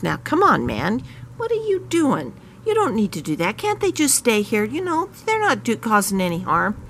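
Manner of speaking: high, pleading voice, pitch jumping up; pleading protest. Retold or imitated. Rock Hudson pleads with the owner to let them stay, high and pleading.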